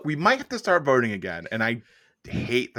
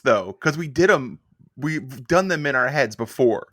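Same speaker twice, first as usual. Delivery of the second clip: worked-up yelling; 3 semitones higher, 5 dB louder than usual. Real, not acted. Co-host defending the show's inside jokes, worked up. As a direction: argue your case heatedly. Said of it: "You guys don't have to yell at me".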